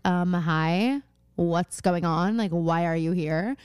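low, unimpressed imitation of a daughter; not fooled. Daughter questions her dad's surprise visit, not fooled. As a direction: drag it out a little, lightly suspicious. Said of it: "She's just not fooled by this".

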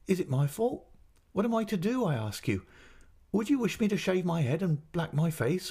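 high-pitched, aggrieved mother; tearful reproach. A narrator's reading. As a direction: scold as if close to tears. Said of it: "shedding more tears than before".

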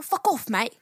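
attempted Aussie accent; playful mock-Australian. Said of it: "that's Australian".

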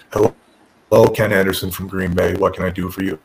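super monotone, low-pitched deadpan; Tommy Dreamer. Retold or imitated. Boss answering a caller from Green Bay, super monotone. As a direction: imitate an unexcited man answering the phone in a low monotone. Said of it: "This super monotone voice".

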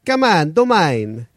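exaggerated high mimicry of a friend; mocking imitation. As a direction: draw it out in a silly impression. Impression of the asker's voice.

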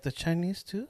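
put-on older Hispanic woman's accent, lifted in pitch and softened; thick Hispanic accent. Old lady passenger quizzing her driver, thick Hispanic accent. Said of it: "A thick ass accent".

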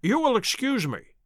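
unruffled politeness; bland. A narrator's reading. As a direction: interject blandly and courteously. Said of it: "said Holmes blandly".

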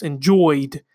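lightly put-on New York accent. Shown as a demonstration. Host mocking how it came out, New York accent. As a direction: say "Enjoyed" like a New Yorker. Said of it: "like I'm from, like, New York".

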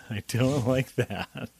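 slow, laughing disapproval. Real, not acted. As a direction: laugh it out, amused. Laughing reaction.

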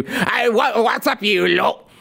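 a hammed-up Brummie accent caricature; mock Brummie accent. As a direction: parody her with an over-the-top Brummie accent. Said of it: "she has this Brummie accent".

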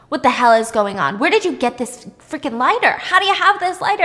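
mock angry interrogation climbing in pitch; pissed, acted out. Angry woman questioning her captive about a lighter, acted out. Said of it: "So she's pissed".

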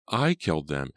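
ordinary delivery, nothing marked

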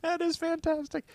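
high, laughing and delighted. Real, not acted. Delighted by the bluegrass trick.

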